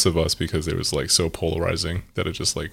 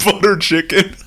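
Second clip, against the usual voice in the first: put-on higher, loud joke Indian accent; mock Indian accent; 12 semitones higher, 5 dB louder than usual. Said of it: "in a very thick Indian accent".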